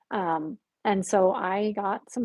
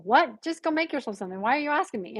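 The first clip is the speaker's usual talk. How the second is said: higher-pitched mock annoyance; retold exasperation; 4 semitones higher than usual. Mom brushing off her child's dinner question, retold exasperation. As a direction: toss it back, imitating a put-out parent. Retelling mother's annoyed reply.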